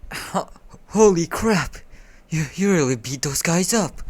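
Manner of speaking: put-on high, loud astonished boy; acted shock, voice jumping up; amazed. A narrator's reading. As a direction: blurt it out in disbelief.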